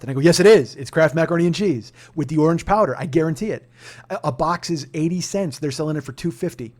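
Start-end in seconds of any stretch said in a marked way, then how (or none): 0.2-3.7 loud. Retold or imitated. Laughing retort about Kraft.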